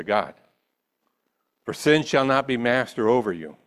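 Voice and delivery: measured, deliberate Bible reading with pauses; solemn public reading of scripture. Acted. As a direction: read the passage aloud phrase by phrase. Reads scripture aloud.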